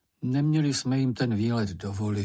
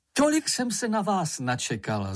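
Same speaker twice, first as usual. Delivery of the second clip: joyful call; 7 semitones higher than usual. A narrator's reading. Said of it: "zvolala maminka".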